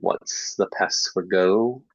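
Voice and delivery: slow deliberate question; metalinguistic clue. Shown as a demonstration. Teacher slowly asks a student for the past form. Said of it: "we say something like".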